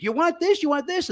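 high-pitched calling out of each item; mock yelling. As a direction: imitate a woman hollering questions. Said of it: "she's yelling every ingredient".

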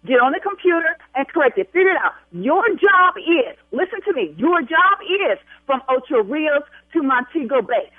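emphatic commands with stretched, hard-hit words; angry ordering. Real, not acted. Bride ordering travel agent to fix booking, angry. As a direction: lay down the law, word by word.

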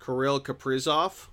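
Kirill Kaprizov said slowly and evenly; careful name pronunciation. Shown as a demonstration. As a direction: sound out Kirill Kaprizov on request. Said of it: "I wanna hear you pronounce it".

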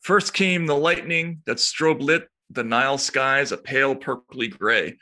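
slow, weighty news read with a lift in pitch; mildly dramatic newsreader voice. Acted. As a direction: read the scorpion story like breaking news. Reads news story dramatically.

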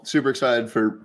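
burp interrupting speech; burping the words. Real, not acted. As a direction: talk through a burp. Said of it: "they will make you burp".

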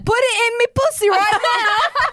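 put-on Cockney accent. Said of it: "It's a Cockney accent".

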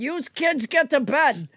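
put-on slow Boston-accented order; imitated Boston nanny. Quoting her original reading to kids, imitated Boston accent. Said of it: "In her original reading, she said".

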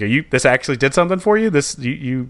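rapid astonished mockery; incredulous wife. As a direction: imitate the wife's baffled teasing. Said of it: "She's like".

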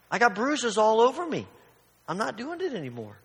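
an irritated judge venting; exasperated judge. Acted. Judge complaining about the widow.

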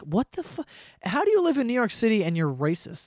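high, incredulous questioning; appalled disbelief. Retold or imitated. Onlooker to racist New Yorker, high appalled disbelief. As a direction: demand an explanation up high.

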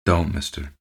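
lightly grunted plea. A narrator's reading. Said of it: "It was a grunt".

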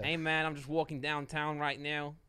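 New York accent. Shown as a demonstration. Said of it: "Do a New York accent".

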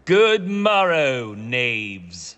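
booming theatrical greeting; grand Elizabethan stage voice; hammy stage actor. Acted. Shakespeare greets tavern grandly.

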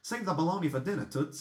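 put-on New York accent. Host showing how a friend finds the accent, mock New York accent. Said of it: "the way she gets her New York accent".

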